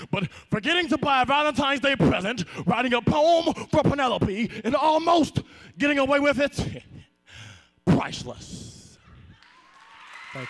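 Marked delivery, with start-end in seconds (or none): 0.1-9.0 commercial voice. Acted. Ad parody.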